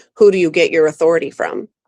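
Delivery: imitated Jamaican-accented speech. Retelling what a woman in a doorway asked him, imitating a Jamaican accent. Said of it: "in her out of character Jamaican accent".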